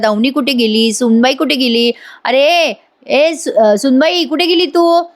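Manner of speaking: put-on old father-in-law calling for the daughter-in-law, pitched high. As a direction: call through the house, searching. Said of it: "अशा अण्णा हाका मारत असतात".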